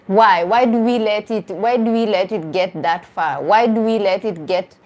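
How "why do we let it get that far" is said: ordinary talk, nothing marked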